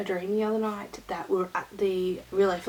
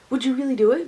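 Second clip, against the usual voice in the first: higher, louder retold question; incredulous co-worker; 5 semitones higher, 8 dB louder, faster than usual. Co-worker asks about shaving it all, incredulously. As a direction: quote a co-worker checking you mean it.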